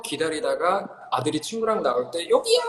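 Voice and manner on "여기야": calling out. Acted. Parent hailing their son coming out of academy, calling out. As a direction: shout to get someone's attention from afar.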